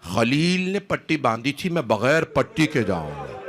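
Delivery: slow, drawn-out cry to God; retold father's solemn cry, words stretched. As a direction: call God to witness, drawing out the words. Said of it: "بلند آواز سے کہا".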